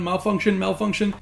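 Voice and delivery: mild mock panic, robotic repeat; lightly hammed-up malfunctioning host; imitating a panicking robot. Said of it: "Bernard starts freaking out".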